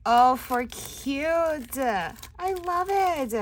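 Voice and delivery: slow, drawn-out high coo; slow gush. Real, not acted. Crafter admiring a little wagon, slow coo. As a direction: savour the cuteness.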